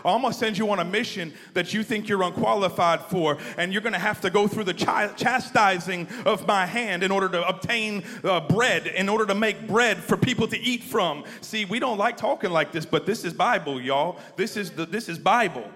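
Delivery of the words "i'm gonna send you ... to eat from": loud, high booming voice of God. Retold or imitated. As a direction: proclaim a mission from on high. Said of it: "When God says".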